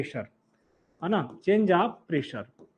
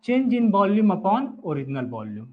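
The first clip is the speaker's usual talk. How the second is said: very slow with change pressed, words spaced for writing; slow dictation stressing change; much slower than usual. Real, not acted. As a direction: dictate it slowly, leaning on change. Teacher dictating definition for notes.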